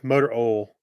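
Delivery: Tennessee "motor oil" with "oil" as "ol", no i; Southern "motor ol", no i glide. Retold or imitated. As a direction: drop the i from "oil", Tennessee style. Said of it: "there's no I, the way he says it".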